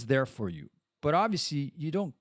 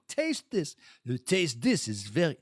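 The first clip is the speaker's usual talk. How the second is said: lightly voiced sommelier offering a taste; imitated sommelier. Sommelier offering wine to her date, lightly imitated. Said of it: "she had a more feminine voice".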